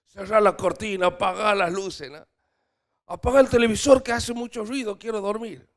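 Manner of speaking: mock complaining, demanding darkness; whiny demand to turn everything off; fussy sleeper. Mimicking someone wanting sleep.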